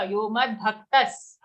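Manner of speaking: bhaktas ending on a bare, vowelless s; half sa. Shown as a demonstration. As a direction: slowly model bhaktas with the visarga turned to half s. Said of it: "we have to say half sa".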